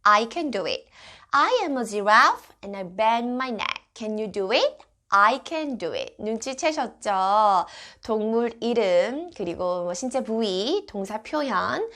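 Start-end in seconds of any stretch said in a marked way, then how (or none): 0.0-6.2 put-on reading to a toddler. Shown as a demonstration. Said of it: "문장 표현 한번 살펴볼게요".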